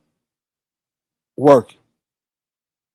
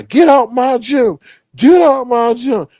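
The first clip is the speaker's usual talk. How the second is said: high-pitched imitation of a supervisor's order; mock angry order; 8 semitones higher, 3 dB louder than usual. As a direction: imitate a boss throwing someone out. Acts supervisor ordering man out.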